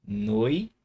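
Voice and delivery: "Noite" split as noi, then te after a pause; syllable by syllable. Shown as a demonstration. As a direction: hold "Noite" apart in two syllables. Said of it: "vamos lá".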